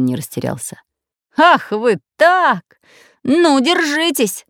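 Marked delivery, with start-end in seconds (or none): 1.4-4.5 fierce shout. A narrator's reading. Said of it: "закричал он страшным голосом".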